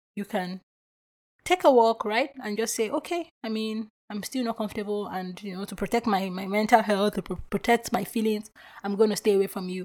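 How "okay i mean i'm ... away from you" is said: normal talking voice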